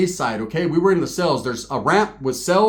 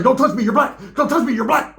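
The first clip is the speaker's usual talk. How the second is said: higher, hammed-up protest; mock indignant; 7 semitones higher than usual. White guy protesting nose to nose. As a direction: squeal it like you're offended. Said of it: "He was like".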